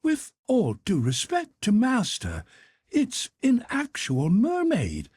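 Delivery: a deferential valet, sure of his discovery; Conseil's voice. Acted.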